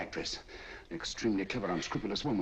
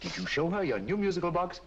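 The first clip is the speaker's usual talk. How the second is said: put-on tearful child; 9 semitones higher than usual. Child tells of being tied up.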